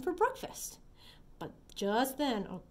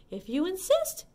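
ladybug voice; 6 semitones higher than usual. Acted. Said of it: "answered the friendly ladybug sweetly".

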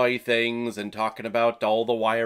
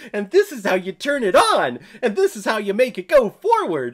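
cheery Elizabeth; 8 semitones higher, 4 dB louder than usual. Retold or imitated. Voicing happy Elizabeth demonstrating.

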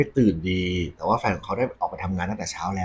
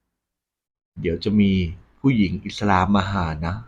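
ghostly warning voice; much slower than usual. Retold or imitated. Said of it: "ได้ยินเสียงเหมือนเป็นเสียงผู้หญิง".

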